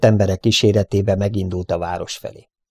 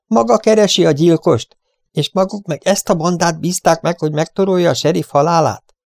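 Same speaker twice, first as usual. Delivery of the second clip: indignant, much higher and louder; 9 semitones higher, 4 dB louder than usual. A narrator's reading. Mary turns to the farmers, indignant and loud. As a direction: hurl the outrage at the farmers. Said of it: "Fordult megbotránkozva a gazdák felé".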